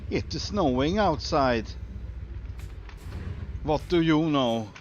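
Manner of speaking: hint of a Swedish accent; mock Swedish accent. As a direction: play a cheerful Swede announcing snow. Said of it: "I better talk like this".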